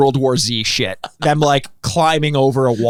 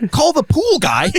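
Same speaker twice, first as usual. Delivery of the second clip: high, slow, laughing; laughing punchline; 12 semitones higher than usual. Real, not acted. Host admitting he called the pool guy, laughing high. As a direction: deliver the punchline through laughter.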